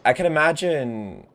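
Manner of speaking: loud, slow dry sarcasm; deadpan it, dragging the words; sarcastic drawl. Real, not acted. Gamer answering a game character, loud and slow sarcasm.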